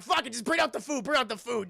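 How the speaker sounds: exasperated boss. Retold or imitated. Boss gives up on singing.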